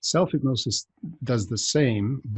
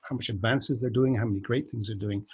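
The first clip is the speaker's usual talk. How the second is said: normal talking voice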